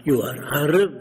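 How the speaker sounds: lightly imitated Arab accent, question lifted; Arab dialect. Arab leader questions the visitor on the phone, imitated Arab dialect. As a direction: retell it in an Arab man's broken English. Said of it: "in a dialect".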